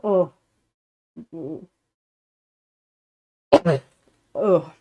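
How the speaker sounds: loud real sneezes; sneezing. Real, not acted. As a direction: sneeze hard, twice in a row. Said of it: "Sorry, I'm gonna sneeze".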